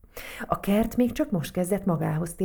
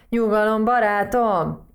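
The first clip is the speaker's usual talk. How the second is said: loud, higher, drawn-out settle-down; calming admonishment; 4 semitones higher, 7 dB louder than usual. A narrator's reading. Toad restraining the eager mouse, firm calming admonishment. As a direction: rein in a friend, slowly and firmly. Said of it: "intette le Varancs".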